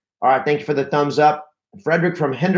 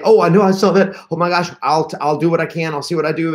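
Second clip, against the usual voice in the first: higher, rushed mock panic; flustered, pitched-up fretting; panicky; 4 semitones higher, 3 dB louder, faster than usual. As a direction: babble like you're freaking out. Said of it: "you start going into a fear mode".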